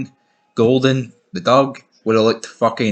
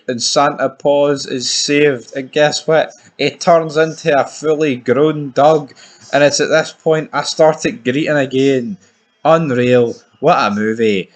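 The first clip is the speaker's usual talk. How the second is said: excited; 4 semitones higher, 4 dB louder than usual. Real, not acted. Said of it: "excited retelling climax".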